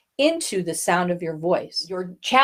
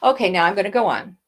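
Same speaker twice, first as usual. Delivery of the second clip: rushing on; faster than usual. Shown as a demonstration. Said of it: "It's not like".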